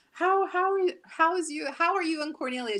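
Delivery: high Jamaican mom voice, imitating; lightly done Jamaican accent; mom's Jamaican accent. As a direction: imitate a Jamaican mother's greeting. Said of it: "She has a Jamaican accent".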